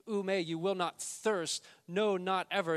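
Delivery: loud, high and slowed on will; loud repeated promise; emphatic. Acted. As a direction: preach it loud, stressing not. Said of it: "he says the same thing".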